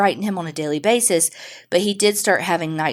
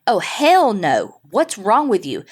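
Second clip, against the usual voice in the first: drawn-out, emphatic "oh, hell no"; mock-appalled comeback, slowed for emphasis; indignant refusal; 3 semitones higher, 3 dB louder, slower than usual. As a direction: recoil in disbelief, retelling it. Retells her alarmed refusal to husband.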